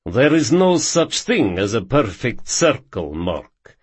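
put-on light Russian accent; Russian accent, lightly voiced; André's Russian accent. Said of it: "In his thick Russian accent".

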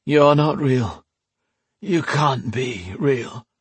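disbelieving Alesh. Acted. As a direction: insist weakly it isn't real. Alesh, slow, high.

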